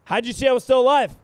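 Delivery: indignant shout. Real, not acted. Indignant after being killed.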